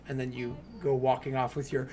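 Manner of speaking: laughing loudly while telling it; can't stop laughing mid-sentence; giggling through the narration. Real, not acted.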